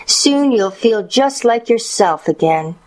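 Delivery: put-on high young granddaughter voice; little girl. A narrator's reading. Girl talks to her grandmother.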